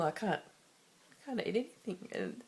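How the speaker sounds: slow, choked-up words; admitting on camera she can't eat, near tears; tearful. Real, not acted. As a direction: struggle through the tears. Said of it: "just a big sookie la la at the moment".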